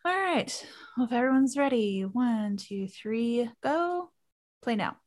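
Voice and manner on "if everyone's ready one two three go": lilting countdown lifting on GO; singsong "one, two, three, go"; melodic count-in. Real, not acted. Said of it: "a little bit more melodic than usual".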